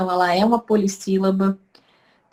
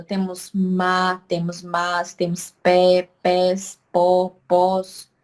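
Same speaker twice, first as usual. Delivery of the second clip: slow example; 2 semitones lower, much slower than usual. Shown as a demonstration. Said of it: "por uma única sílaba".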